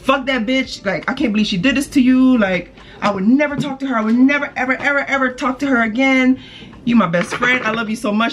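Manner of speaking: friend's gushing high voice; imitating friend. Friend reassuring the speaker after the betrayal, gushing and high.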